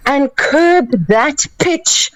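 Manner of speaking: squeaky high voice; high pitched. Shown as a demonstration. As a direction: keep it high and piercing. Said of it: "I may have overdid it just a little bit".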